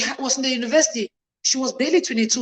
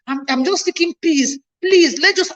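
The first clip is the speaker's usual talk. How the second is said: pleading mother; 5 semitones higher than usual. Retold or imitated. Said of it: "My mother was the one begging me".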